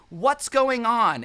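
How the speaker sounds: high, slow concerned mom; a hint of a worried mother; mom asking. Mom's voice on the microphone.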